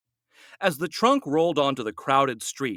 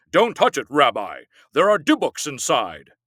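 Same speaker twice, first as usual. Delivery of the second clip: yelled warning; 5 dB louder than usual. A narrator's reading. Man warning the rabbi, loud yelled warning. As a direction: shout to stop the rabbi. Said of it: "a man yelled".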